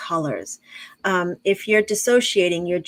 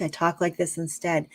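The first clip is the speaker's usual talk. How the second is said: grounded diaphragm voice; 2 semitones lower, 4 dB quieter than usual. Shown as a demonstration. Showing how she speaks when grounded with children, voice settled down. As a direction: bring the voice down out of the head. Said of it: "bring it down into".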